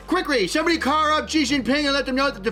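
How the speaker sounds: a sneaky sailor voiced with a mild Chinese accent; a hint of a Chinese accent, boastful and scheming; comedic Chinese voice. Holds comedic Chinese character voice.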